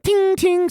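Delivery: high imitated metal ting; ping it high like metal; machete ting. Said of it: "plinking the machete on the fucking wall".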